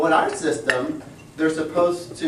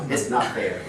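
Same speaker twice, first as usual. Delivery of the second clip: fatherly voice; 3 semitones lower than usual. Retold or imitated. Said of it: "in my most fatherly voice, almost as though Jehovah".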